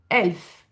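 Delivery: "elf" opened with a glottal stop. Shown as a demonstration. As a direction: start "elf" on a hard vowel attack. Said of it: "Vous entendez ce E". (« elf » avec coup de glotte initial)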